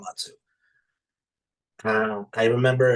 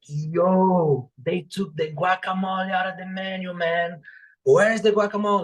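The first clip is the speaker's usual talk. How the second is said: mock complaint; 5 semitones higher than usual. Retelling a customer's complaint.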